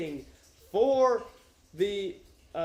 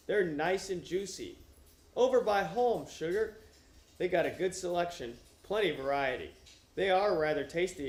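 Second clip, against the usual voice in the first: reading the novel aloud with light character voices; story reading. Acted. Streamer reading a novel to chat, plain read-aloud. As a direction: read the passage straight through, lightly voicing the characters.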